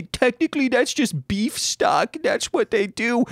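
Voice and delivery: high, nasal-free mocking pedant; know-it-all voice. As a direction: lecture them like a smug know-it-all. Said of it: "I know people will say".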